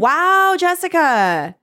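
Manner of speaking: high, loud, drawn-out wow; wowed reaction. Retold or imitated. Friend reacting to Jessica's boast, wowed. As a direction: start high and loud, easing down on the name.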